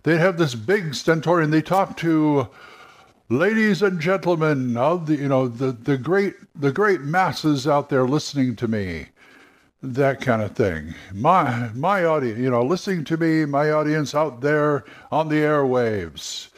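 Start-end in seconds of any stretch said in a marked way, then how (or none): 0.0-9.1 lightly voiced old-time radio announcer, a bit higher; stentorian radio voice. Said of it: "they'd talk like this". 11.1-16.5 stentorian radio voice. Retold or imitated. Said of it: "like they're giving a speech".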